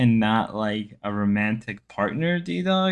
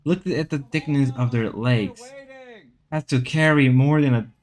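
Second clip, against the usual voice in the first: nature documentary. Pretend. Documentary narration continues.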